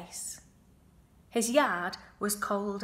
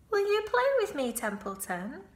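pleading piglet; 10 semitones higher than usual. Acted. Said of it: "asked Wilbur".

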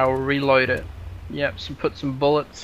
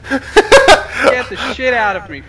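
laughing it out slowly; 8 semitones higher, 8 dB louder, slower than usual. Real, not acted. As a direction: laugh through the words. Repeats while laughing.

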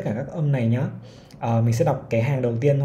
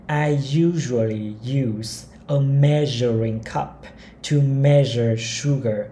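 each word of the sentence spaced out slowly; slow model reading; much slower than usual. Shown as a demonstration. Teacher reading a model sentence to learners, very slowly. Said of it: "Câu thứ ba này".

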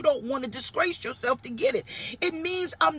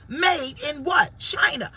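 mock label reading; 3 semitones higher, 4 dB louder, slower than usual.

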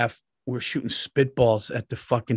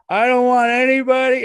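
higher, louder drawn-out teacher impression; slow teacher voice; 9 semitones higher, 8 dB louder than usual. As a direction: drag the words out like the old teacher. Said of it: "he talked real slow like that".

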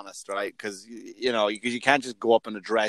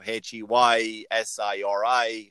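spelled out; 4 semitones lower, slower than usual. Shown as a demonstration. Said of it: "I'll yell out".

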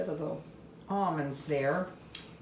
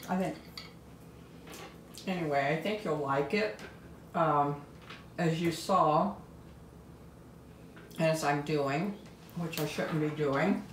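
talking while chewing; words around a mouthful of food; mouth full. Real, not acted. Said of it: "talking with my mouth full".

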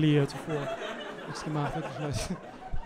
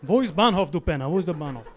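mock aggressive Turkish-German street accent. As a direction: bark it like a tough guy. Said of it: "Ich bin die ganze Zeit so". (aggressiver Türke, nachgemacht)

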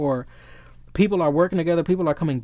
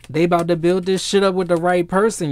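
louder, higher emphatic repeat; excited insistence; 3 semitones higher, 3 dB louder than usual. Real, not acted. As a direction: drive the point home with rising excitement. Excitedly repeats the same prediction.

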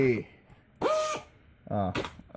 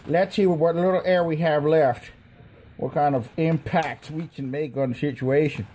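higher, louder put-on silly voice; goofing around in a funny voice; talking funny; 6 semitones higher, 6 dB louder than usual. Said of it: "Why am I talking funny?".

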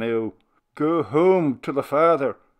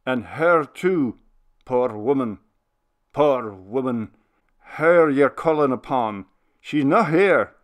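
tender; 5 semitones higher, 8 dB louder than usual. Acted. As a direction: still loud, higher, but gentler and pleading old minister. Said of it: "the loud tones of his voice sank into tenderness".

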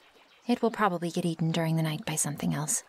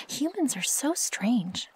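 slow, higher-pitched bemusement; baffled wonder; 6 semitones higher, slower than usual. Acted. Wolf puzzled by human cooking habits, baffled. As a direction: stretch it out, bemused by odd customs.

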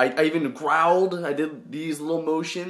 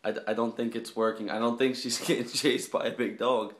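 hushed aside; 3 semitones lower, 6 dB quieter than usual. Real, not acted. Talking beside sleeping girlfriend.

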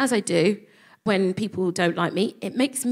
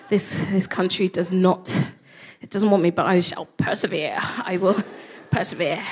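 mock grand resolve; 2 semitones lower than usual. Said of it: "I was like".

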